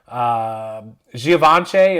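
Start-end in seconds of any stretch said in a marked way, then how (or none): 1.2-2.0 "Givenchy" as zhee-VON-shay, louder; French-style pronunciation. Shown as a demonstration. YouTuber introducing the brand name, French-style pronunciation. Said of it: "of course, it's not Givenchy".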